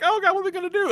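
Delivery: high-pitched squeal of mock alarm; mock panic. Recapping the girls cornered by the villain, mock panic.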